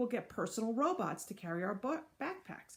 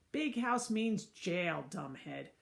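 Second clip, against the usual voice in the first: condescending; slower than usual. Acted. Andrea scolding, slow.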